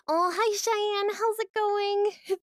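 high, slow drawn-out hello; long, high-pitched friendly hello; delighted greeting. Real, not acted. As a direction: greet a visitor with stretched-out delight. Sing-song greeting to a visitor.

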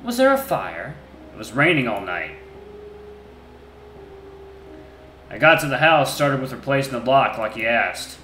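loud, rough grumbling answers; a surly wolf under questioning; gruff wolf voice. Acted. Wolf recounting.

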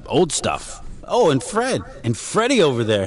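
snake oil seller. Pretend. Continues barker act.

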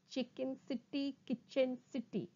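measured syllables, evenly spaced; slow tongue twister. Shown as a demonstration. Teacher models a twister for students, slowly. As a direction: separate each syllable carefully. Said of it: "first try saying them slowly".

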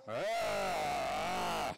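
mooing like a cow. Retold or imitated. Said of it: "It sounds like this".

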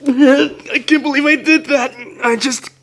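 high and loud, giddy disbelief; flustered squeal. Acted. After kissing the listener, high loud giddy disbelief. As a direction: blurt it out, overwhelmed.

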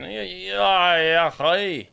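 mock Scottish, drawn-out syllables; horrible Scottish accent. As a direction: put on a bad Scottish accent. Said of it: "my horrible Scottish accent".

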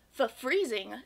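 mock teeth-chattering stutter on "Fa freezing". The cold mouse answers Gus with lightly chattering teeth. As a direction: shiver lightly through the word. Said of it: "with chattering teeth".

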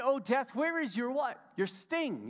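sarcastic mockery. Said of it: "sarcastic making fun of death".

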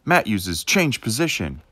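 slow, loud game announcer; Pokémon battle announcer. Pretend. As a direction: call the move like a Pokémon game. Pokémon battle narration parody.

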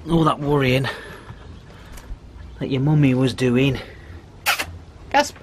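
normal talking voice

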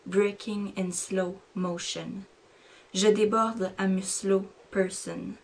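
slow, measured poetry reading; unhurried recital, letting the images land; poem recitation. Acted. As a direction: read each line like a spoken-word poem. Recites her own bilingual poem.

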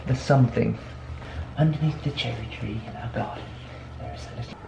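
soft, hushed storybook read; hushed bedtime story narration; reading to children. Shown as a demonstration. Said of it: "I should practice now".

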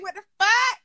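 high mock "What the fuck?" quoting her; squeaky playful imitation of her friend going off; imitating friend. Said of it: "you had me screaming".

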